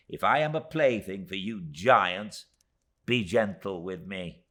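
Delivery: high, loud little-woman voice; a small dwarf woman pleading her case, pitched high; tiny Miss Moucher. Acted. Miss Moucher to David, defending her lot in a high voice.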